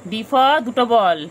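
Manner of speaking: very slow, drawn-out sing-song recital; voicing the pet chanting ABCs; pet reciting alphabet. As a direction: spell it out like a toddler learning letters. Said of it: "চিংড়ি বলে".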